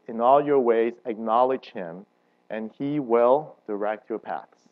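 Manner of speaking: slow, measured verse reading; solemn, deliberate Bible reading; scripture reading. Acted. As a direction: read the verse with weight. Reads the King James wording.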